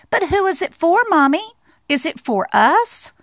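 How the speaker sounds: high, eager little mouse voice; pleading little mouse. Acted. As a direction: ask it sweetly as a small mouse. Mouse questions his mother.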